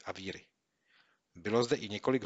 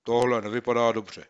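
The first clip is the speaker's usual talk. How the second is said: worried judgement; 2 semitones higher, 9 dB louder than usual. Acted. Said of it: "soudil Kopyto".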